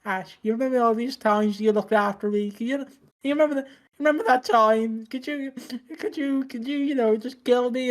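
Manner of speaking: high, pleading mock-sincere ask; mock deathbed plea. Asking Ash to end it, high pleading. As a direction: lay it on thick begging a friend.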